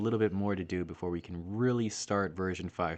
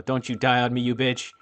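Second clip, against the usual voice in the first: mock desperate yell; 2 semitones higher, 6 dB louder than usual. Real, not acted. Yelling at dying fairy.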